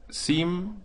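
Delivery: slow syllable count Sim-pa-ti-a; split into syllables. Shown as a demonstration. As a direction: break Sim-pa-ti-a into four syllables. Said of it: "Tenemos cuatro sílabas".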